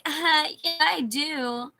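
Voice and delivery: high, loud mocking imitation of the girl. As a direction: parrot her reply snottily. Imitating the girl's reply.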